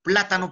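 "Plátano" with PLÁ high and loud; stress on PLÁ. Shown as a demonstration. Teacher explaining an esdrújula, stress on PLÁ in "Plátano". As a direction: punch the first syllable of "Plátano". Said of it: "La mayor fuerza de voz está en pla".

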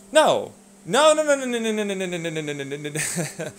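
rapid refusal. Real, not acted. String of refusals.

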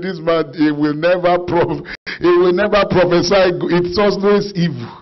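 angry retelling. Retold or imitated. Preacher retells King Ahab's complaint about a prophet, angry. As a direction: voice a king's irritated complaint. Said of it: "was very angry with this man".

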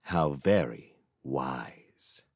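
slow, low, soft menace; cold menace. A narrator's reading. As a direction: drip with quiet threat. Magician's cold reply.

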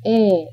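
"e" held as a pure vowel with no glide at the end; pure vowel demo. Shown as a demonstration. Teacher showing the glide-free vowel to learners, carefully enunciated. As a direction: say "e" steady with no off glide. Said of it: "without the off glide".

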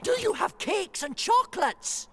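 very high, fast squeaky question; greedy rat cry. Acted. Greedy rat shouts into the cave, very high. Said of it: "the highway robber cried".

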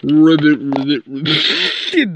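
lightly voiced frog croak; playful mock ribbit. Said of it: "That says ribbit".

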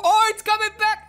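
high-pitched cry of warning; mock alarm. Player warning of the giant ball, mock alarm. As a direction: blurt it as the danger returns.

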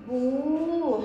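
"بو" with the oo stretched out; long oo syllable. Shown as a demonstration. Teacher sounding out ba with waw, "بو" drawn long. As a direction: hold "بو" on a long, sustained oo. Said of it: "حرف الباء مع مد الواو".

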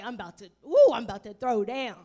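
a loud ooh, then eager; mock excited diner. Pastor imitating a hungry diner before eating, mock eager. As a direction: act out a starving diner. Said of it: "So you're like".

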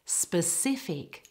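"Specific" slowly, stress on the middle part; second-syllable stress. Shown as a demonstration. Teacher models it for non-native speakers, second-syllable stress on "Specific". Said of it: "it's on the second syllable".

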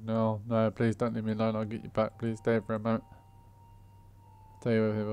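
loud desperate begging; pleading. Acted. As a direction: beg them not to leave. Begging not to lose mask.

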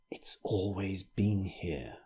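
put-on slow, breathy whisper of an old vicar. A narrator's reading. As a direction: whisper it like a frightened secret. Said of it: "whispered the old vicar".

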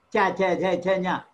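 "cha, nya" with tongue just behind the teeth; palatal sounds. Shown as a demonstration. Teacher showing pupil the tongue place, palatal. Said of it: "It will be just behind".

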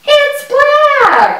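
high, surprised exclaim; amazed. Acted. Child surprised a bee is black, exclaiming high.

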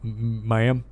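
put-on low, halting old officer. Old officer accepting maple syrup, low and grateful. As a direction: play it low and gallant, stumbling slightly. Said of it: "this old officer's heart".

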